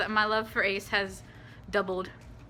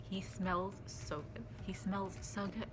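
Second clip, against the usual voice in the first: swooning; 11 dB quieter, slower than usual. Real, not acted. Swooning over idol.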